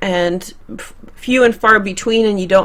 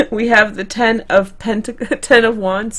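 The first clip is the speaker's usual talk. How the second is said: giggling through the words; laughing. Real, not acted. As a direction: laugh while reading the card. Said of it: "I laughed at my own joke, I coughed, and I started choking".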